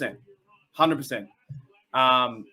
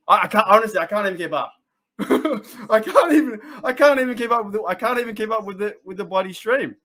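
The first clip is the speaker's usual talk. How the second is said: higher, giggly and flustered; laughing, overwhelmed; 6 semitones higher, 4 dB louder, faster than usual. Real, not acted. Streamer swamped by a racing chat, laughing. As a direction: laugh helplessly while stumbling over the words.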